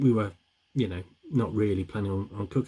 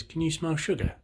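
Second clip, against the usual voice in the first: put-on high-pitched baby mole question; high, childlike voice; 9 semitones higher than usual. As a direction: ask it as a little mole child. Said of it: "Baby mole says".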